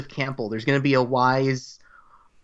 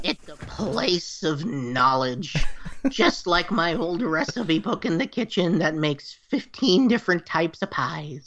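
witch voice; 5 semitones higher than usual. Acted. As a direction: savor it like a kindly crone. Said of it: "I'm gonna continue using the voice".

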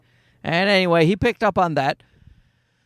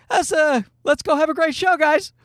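higher, upbeat rally of the team; forced pep talk; 9 semitones higher than usual. Retold or imitated. Comedian pepping up his fellow comics before the show, higher and upbeat. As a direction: pump the guys up, a bit forced. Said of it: "so I was like".

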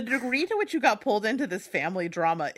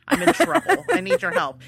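louder, higher urgent plea; 1 pleading friend; 7 semitones higher, 5 dB louder than usual. Retold or imitated. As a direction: beg for help, a touch dramatic. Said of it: "she had to be like".

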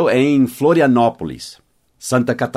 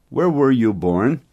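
slow; slower than usual. Shown as a demonstration. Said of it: "teacher repeats the question".

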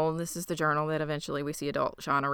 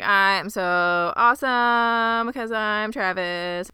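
smug Travis; 3 semitones higher, 4 dB louder, slower than usual. Retold or imitated. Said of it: "he's like".

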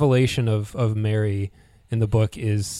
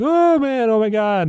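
much higher, breathless after laughing; 12 semitones higher, 4 dB louder than usual. Retold or imitated. Laszlo recovering from laughter, high breathless. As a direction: catch your breath from a belly laugh. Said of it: "wipes the tears from his eyes".

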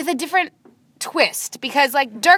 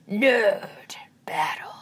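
whispered; 3 semitones lower, 3 dB quieter, slower than usual. Pretend. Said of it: "That's it?".

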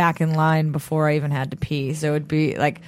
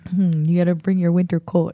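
put-on North Dakota accent. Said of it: "that's my one for North Dakota".

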